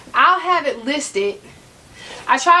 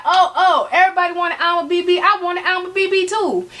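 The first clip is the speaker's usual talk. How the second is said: higher, hurried mock-eager voice; caught up in hype; 5 semitones higher than usual. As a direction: imitate yourself jumping on the bandwagon. Acting out her past hype.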